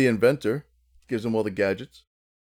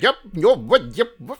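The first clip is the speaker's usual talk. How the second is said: Alice the Goon; 10 semitones higher, 6 dB louder than usual. Pretend. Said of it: "kinda sounds like Alice the Goon".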